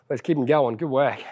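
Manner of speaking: huffing and puffing through it; out of breath. Real, not acted. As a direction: talk while breathing hard. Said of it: "I'm huffing and puffing".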